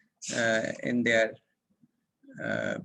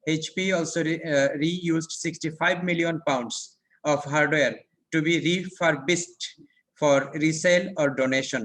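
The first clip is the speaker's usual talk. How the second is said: slow textbook reading; much slower than usual. Acted. Reads textbook passage aloud.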